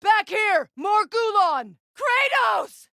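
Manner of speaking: urgent calls across the fight; shouted combat warnings; battle shouts. Acted. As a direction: yell warnings to your father. Combat callouts to Kratos.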